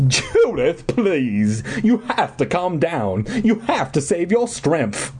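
put-on Southern-accented pleading. A narrator's reading. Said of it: "Miss Bellwood pleaded".

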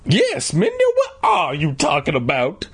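high-pitched mom voice; mom's questioning. A narrator's reading. Mom backing up the question to Mindy, asking in a high voice. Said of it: "Mom asked".

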